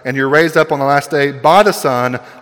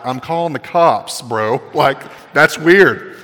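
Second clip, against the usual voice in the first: laughing retort; slower than usual. Retold or imitated. Mock reply to weird guy.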